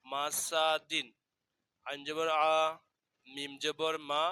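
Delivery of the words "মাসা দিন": মাসা দিন drawn out slowly; slow model reading. Shown as a demonstration. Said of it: "দাল দুই জের দিন".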